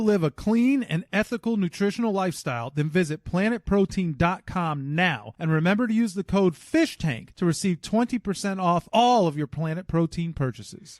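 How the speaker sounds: upbeat sponsor ad read; podcast host reading a sponsor ad. Acted. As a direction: sell it like a radio spot.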